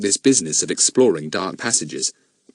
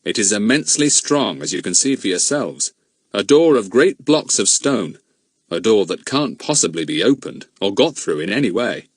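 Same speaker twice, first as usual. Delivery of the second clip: a lightly voiced grown man, grave; steady adult man puzzling it out; a hint of a serious man; Bill's voice. Bill explains the wall.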